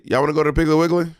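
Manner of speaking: quick, natural Atlanta question; real Atlanta accent. Shown as a demonstration. Atlanta host correcting co-host with quick natural Atlanta talk. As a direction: say it briskly in everyday Atlanta speech. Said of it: "People from Atlanta would say".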